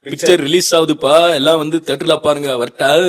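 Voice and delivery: loud, high, drawn-out Bangalore Tamil; Bangalore Tamil slang. Shown as a demonstration. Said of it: "என்ன பேசி காட்டுன்னு சொல்ல போறாரு". (உரக்க, இழுத்துப் பேசுற பெங்களூர் தமிழ் ஸ்லாங்)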